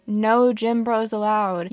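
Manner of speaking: stern slow bouncer warning; firm loud call-out. Acted. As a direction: lay down the rule slowly and loudly. Scolding a guy on screen.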